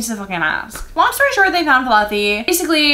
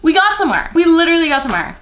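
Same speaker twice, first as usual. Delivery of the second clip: triumphant; 7 semitones higher, 4 dB louder, much faster than usual. Real, not acted. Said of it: "I present you Exhibit A".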